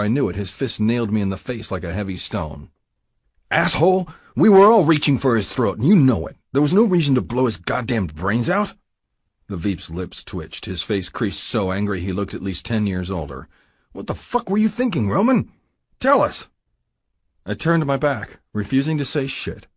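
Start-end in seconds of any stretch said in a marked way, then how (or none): 3.5-8.7 louder, higher, furious yelling; furious shout. Acted. Brass furious after the shooting. 13.9-16.5 much higher, furious demand for answers; angry demand. Acted.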